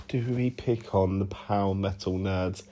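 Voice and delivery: unvoiced, breathy whisper. Real, not acted. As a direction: whisper it to yourself with a sigh. Sighing, whispered repeat of question.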